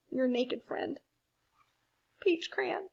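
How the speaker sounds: high, whiny, near-tearful crayon voice; embarrassed Peach Crayon. Acted. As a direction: plead high and flustered, ashamed to be seen.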